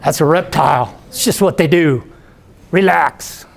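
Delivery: mock Florida redneck accent. Bubba brushes off the speaker's worry about the gator, in a Florida redneck voice. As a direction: play a dismissive Florida redneck. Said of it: "talking like a total ... Florida redneck".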